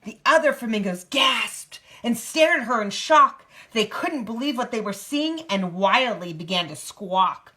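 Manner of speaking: lively picture-book narration; reading to a child. A narrator's reading. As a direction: read it out in a clear storybook lilt.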